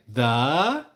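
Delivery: drawn-out prompt with a rising end; older sister teaching. Retold or imitated. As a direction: lightly mimic a sister modelling a word. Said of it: "She'll be like".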